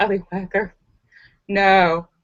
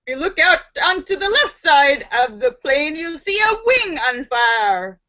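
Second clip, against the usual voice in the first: lightly voiced singsong pilot patter; airline pilot announcement; 3 semitones higher than usual. Pilot addresses the passengers, in announcement singsong. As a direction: announce disaster like a sightseeing tour. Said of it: "heard the pilot's voice say".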